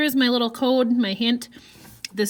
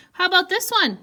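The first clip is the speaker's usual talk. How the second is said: 1 questioning voice; 8 semitones higher than usual. Shown as a demonstration. Voicing Egan's question.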